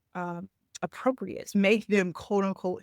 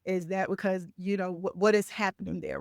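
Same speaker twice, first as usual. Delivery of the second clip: calm. Acted. Coach models answering a raised voice, calmly. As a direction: state it evenly, without accusing. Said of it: "say that in a calm state".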